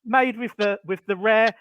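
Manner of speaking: glitchy robotic connection. Real, not acted. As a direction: sound like a robot on a bad line. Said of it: "you sound like a robot".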